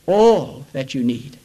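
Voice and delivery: slow right down on all that you need; slow and deliberate. Acted. Phrase repeated, slower second time.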